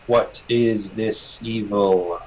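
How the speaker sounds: slow, heavy questioning creature voice. Acted. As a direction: ancient spirit asking, very slow. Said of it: "it interrupts you".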